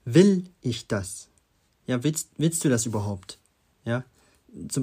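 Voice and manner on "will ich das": "Will" loud and drawn out, the rest falling away; slow question with a punched first word "Will"; stress on Will. Shown as a demonstration. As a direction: hit "Will" hard, then slowly "ich das". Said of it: "nochmal zur ersten Frage".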